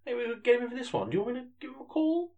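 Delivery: excited. Acted. Excited eager reply, very high.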